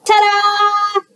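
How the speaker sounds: high, bright reveal; ta-da at the big reveal. A narrator's reading. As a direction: announce it like a magic trick.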